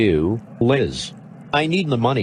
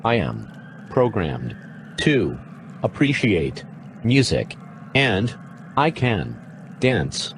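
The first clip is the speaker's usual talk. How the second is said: robot voice. Acted. Actor plays robot.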